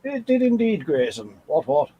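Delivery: banter like a hammed-up upper-crust gent; mock toff. Mock-formal banter, ends in "what, what.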